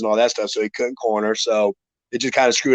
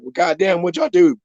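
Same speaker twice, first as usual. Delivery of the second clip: higher, teasing sarcastic jab; mocking jab; 5 semitones higher than usual. Fighter teasing opponent about road-trip snacks, higher mocking jab. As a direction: rib him like a buddy ribbing a fat friend.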